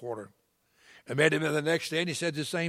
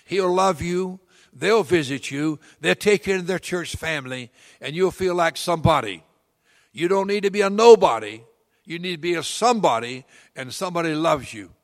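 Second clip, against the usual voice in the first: loud, higher urging, building to NOBODY; rising preacher's plea, loud on nobody; fervent encouragement; 4 semitones higher, 8 dB louder than usual. Retold or imitated. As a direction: lift him up with fire. Preacher urges the broken man.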